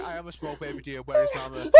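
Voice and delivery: lost little fawn squeaking for mama through laughter; hammed-up baby voice, breaking into a laugh; baby deer voice. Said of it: "someone was Googling, like".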